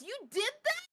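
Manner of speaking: high-pitched disbelief; high incredulous voice. Retold or imitated. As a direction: squeak it in disbelief. Retold husband quote.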